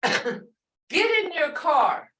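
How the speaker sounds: slow, drawn-out order; telling kids what to do, drawn out; parental command. Shown as a demonstration. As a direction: order the kids along, slowly. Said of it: "Sounds like you're telling the kids".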